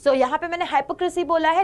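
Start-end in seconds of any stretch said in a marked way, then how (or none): 0.6-1.2 "हाइपोक्रेसी" with a long i, high-po-; correct pronunciation. Shown as a demonstration. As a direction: open "हाइपोक्रेसी" like the word hype. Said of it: "this is correct pronunciation".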